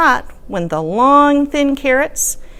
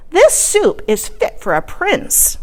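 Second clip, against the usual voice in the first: put-on slow, higher old lady voice; proud and pleased, drawn out; 7 semitones higher, slower than usual. Old lady praising the soup, slow and high.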